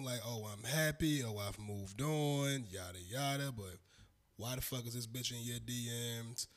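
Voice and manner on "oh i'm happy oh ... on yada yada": slowing, sing-along fake contentment; mock facade. Mimicking exes pretending they moved on, mock-happy facade. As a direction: drag it out dismissively, dropping lower. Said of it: "they just gotta put the facade on".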